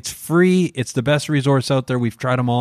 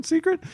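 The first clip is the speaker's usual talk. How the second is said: Secret? with a big upward question lilt; Secret? sung up high, mock questioning; finishing on a question; 3 dB quieter than usual. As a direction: make Secret? soar up like a question. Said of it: "did he finish on a question".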